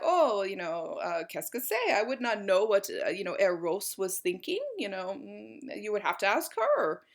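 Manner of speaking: lightly put-on French accent as Duchamp; hint of a coy French accent, deflecting the question. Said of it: "talk like him, like he has a French accent".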